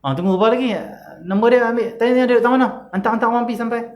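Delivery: what we would shout in anger; furious outburst. Retold or imitated. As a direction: whip up revenge like an enraged son. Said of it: "Kalau kita kata apa?".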